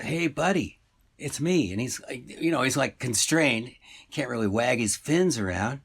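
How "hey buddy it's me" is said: lightly voiced fish, pitched higher; halibut calling out. Talking fish to a shopper, calling up higher. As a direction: pitch up to get a man's attention. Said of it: "the fish goes".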